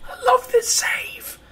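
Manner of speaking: very high, slow, strained squeal; overjoyed squeal. Real, not acted. Gamer overjoyed with his saved game, strained high squeal. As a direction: squeeze it out, overcome with delight.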